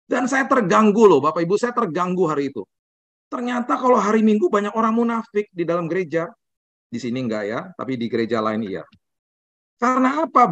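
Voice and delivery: high, forceful sermon delivery; impassioned preaching. Acted. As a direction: preach with rising fervor.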